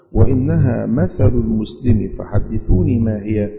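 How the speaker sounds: slow, measured formal reading aloud; hadith recitation. Real, not acted. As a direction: read it out slowly and firmly, phrase by phrase. (قراءة حديث متأنية بالفصحى)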